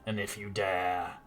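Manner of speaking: lightly voiced lizardfolk warrior laying down a threat; slow, firm, a hint of menace; stern lizardfolk. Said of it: "the lizard folk says".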